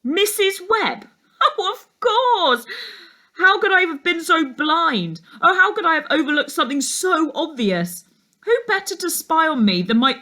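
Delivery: the penny drops with a laugh; laughing realisation. A narrator's reading. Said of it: "he laughed".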